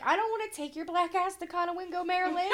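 half-laughing, half-crying joke; laughing through tears. Real, not acted. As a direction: crack a joke while still teary. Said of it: "say something like that through tears".

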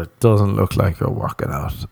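a flat, doubting friend's tone; dismissive tone. Retold or imitated. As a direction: say it like a put-down. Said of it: "couldn't tell in the tone".

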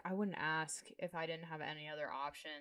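quiet, subdued begging. Retold or imitated. Fired worker begging old manager for help, begging. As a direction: plead under your breath, softly. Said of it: "Fiona's kind of begging her".

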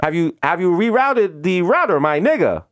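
insistent mock Indian accent; careful tech-support query in Indian accent; Indian call-center agent. Agent checking on stalling caller, put-on Indian accent.

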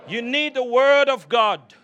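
forceful stress through "word of God"; said like you mean it. Shown as a demonstration. Preacher urging congregation to mean it, emphatic "word of God". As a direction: declare "word of God" with conviction. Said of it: "say it like you mean it".

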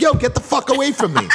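high-pitched, indignant retold warning; worked-up storyteller's 'back off'; retold angry warning. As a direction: act out pushing someone off, laughter nearby. Acted warning in retold quarrel.

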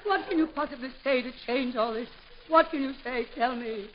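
hammed-up betrayed heroine; melodramatic outrage. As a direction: build from tender to wounded cry. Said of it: "run the gamut of emotion".

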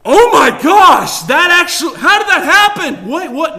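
high, loud feigned panic; mock shock. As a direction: overplay being utterly stunned. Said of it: "He's not shocked by your sin".

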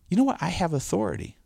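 high-pitched retold discovery; acted-out little epiphany; dawning realisation. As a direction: recall a sudden bright idea, voice lifting. Re-enacting his dawning realisation.

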